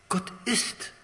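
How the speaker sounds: breathless whisper of awe. Real, not acted. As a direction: whisper it like a secret wonder. Awed aside in sermon.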